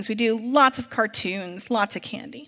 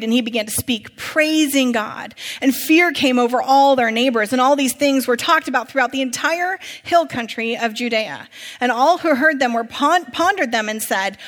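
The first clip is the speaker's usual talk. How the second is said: emphatic public Bible narration; projected reading with weighted key words; scripture reading; 3 dB louder than usual. A narrator's reading. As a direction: tell the sacred story to the whole congregation. Reads scripture aloud to congregation.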